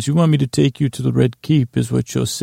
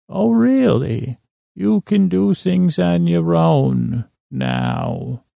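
mocking the boy, high and drawn out; mocking vine spirit; 5 semitones higher, slower than usual. Mistress of Vines scoffing at Tommen's claim of independence, high and slow. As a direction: needle him with disbelief, slowly.

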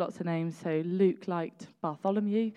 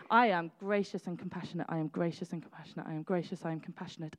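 smug, self-satisfied listing of virtues; mock self-praise; 4 dB quieter than usual. Preacher mocking her own patience before snapping, smug. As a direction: preen a little, then drop it. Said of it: "And now I'm angry".

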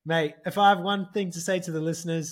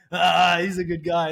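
approving prince voice; 7 dB louder than usual. Retold or imitated. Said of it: "he was like".

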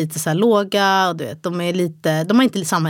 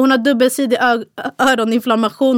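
louder, higher urgent report; urgent news; 5 semitones higher, 4 dB louder than usual. Retold or imitated. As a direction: announce the diagnosis with alarm. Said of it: "Han bara". (upprört, högre och starkare besked)

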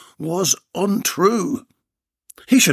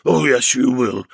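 menacing; 4 dB louder than usual. Acted. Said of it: "replied the muffled voice".

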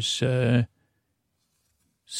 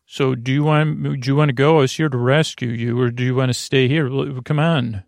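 non-regular voice; much faster than usual. Acted. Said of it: "I'm talking in my non-regular voice".

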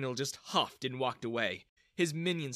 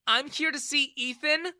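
higher, louder curt answer; angry reply; 12 semitones higher, 6 dB louder than usual. Acted. Daughter answering her father, angry. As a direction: bite the words off in anger. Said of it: "she replied angrily".

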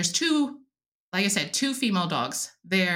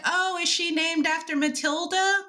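curious people; 8 semitones higher than usual. Retold or imitated. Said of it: "they're like".

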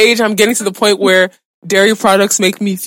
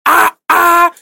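shocked; 8 semitones higher than usual. Real, not acted. She pours lots of sugar.

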